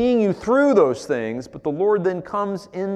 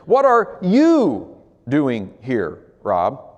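slow probing question; 2 semitones lower, much slower than usual. Acted. God asking again, slowed.

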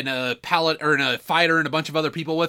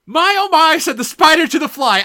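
sing-song mock villain line; playful recital; 10 semitones higher, 7 dB louder than usual. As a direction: recite it like a gloating spider. Quotes rhyme with flourish.

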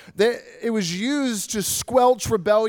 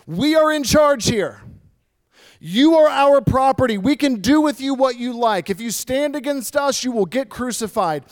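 louder, commanding voice of Rome; Rome's loud warning; 4 semitones higher, 5 dB louder than usual. Retold or imitated. Preacher voicing Rome's threat to rebels, loud and commanding. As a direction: lay down the law as imperial Rome, loud and hard. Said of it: "a loud and clear message from the government".

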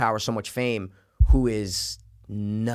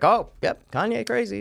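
high mock voice of dismissal; dismissive public voice; 9 semitones higher than usual. People shrugging off Kanye.

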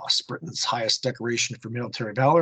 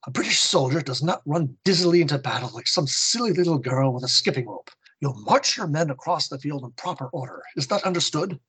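loud interjection; 4 semitones higher than usual. Acted. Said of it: "Colonel Ash loudly interjects".

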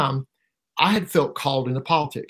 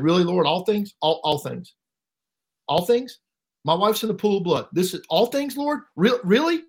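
retold incredulous plea, climbing much higher; anguished disbelief; 5 semitones higher than usual. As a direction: question God in rising disbelief, reenacted. Questioning God over his wife's body.

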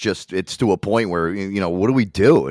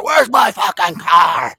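mock angry customer; 8 semitones higher, much slower than usual. Customer demanding his car, mock angry yell. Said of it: "the guy's like".

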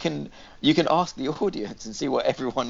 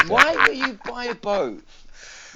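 very slow, higher, louder whiny question; drawn-out whine; 6 semitones higher, 4 dB louder, much slower than usual. Pretend. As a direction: stretch it out like a mocking whine. Friend mockingly repeats the question.

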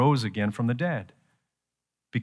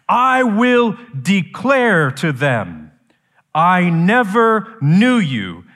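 slow, loud, raised proclamation; total authority; 6 semitones higher, 6 dB louder, much slower than usual. Acted. Jesus declaring to false followers, total authority. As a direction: pronounce judgement, drawing out each word. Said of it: "Total authority".

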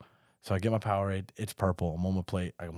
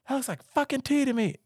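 drill sergeant. Retold or imitated. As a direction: bark it like a furious drill sergeant. Recruit retells sergeants yelling.

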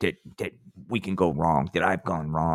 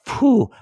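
relieved phew; 5 dB louder than usual. Acted. Acting relief at getting away.

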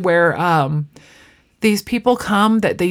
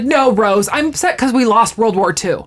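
imitating a quick, over-the-top sarcastic retort; mock exasperated sarcasm, lightly acted; sarcastic comeback; 2 semitones higher than usual. Dorothy answering Rose's silly question about her canceled date, sarcastic. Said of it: "so over the top sarcastic".

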